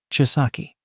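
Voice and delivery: calm, understated interjection. A narrator's reading. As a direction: cut in calmly with the name. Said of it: "Sensei said calmly".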